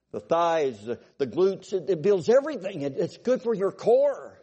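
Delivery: a coach's growing enthusiasm, pushed up high; raving coach. Retold or imitated. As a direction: gush like a fired-up track coach. Coach raving about sand running.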